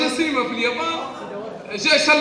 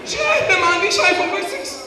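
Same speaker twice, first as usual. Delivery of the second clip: put-on whiny teenage girl; 5 semitones higher than usual. Girl complaining about no iPhone.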